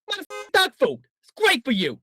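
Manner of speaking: put-on foul-mouthed New York gangster accent; Joe Pesci. Host spoofing a dog food commercial, New York gangster accent. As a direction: sell it like a New York wiseguy. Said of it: "do it in that accent".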